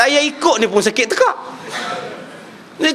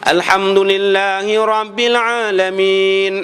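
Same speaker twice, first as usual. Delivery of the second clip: relaxed, unforced Quran recitation, slow; easy recitation; slower than usual. Shown as a demonstration. Teacher shows how Fatihah is read easily, relaxed and slow. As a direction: let it flow lightly, no pushing. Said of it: "baca dengan sempoi je, senang je".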